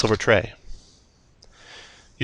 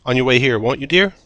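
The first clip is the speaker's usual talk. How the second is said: put-on calling old woman; 4 semitones higher than usual. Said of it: "she calls out".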